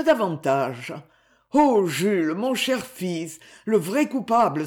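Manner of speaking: pleading for his son's pardon, gently; remorseful father. Acted. Father begs son's forgiveness.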